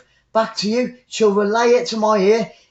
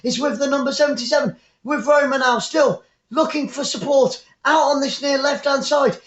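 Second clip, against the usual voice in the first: higher, quicker commentary as the attack builds; excited play-by-play; 4 semitones higher than usual. Real, not acted. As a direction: call the Roma attack with rising excitement.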